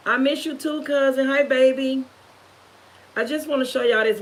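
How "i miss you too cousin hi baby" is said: affectionate greeting. Real, not acted. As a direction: say hi to family fondly, pitched up. Greets relatives joining the live.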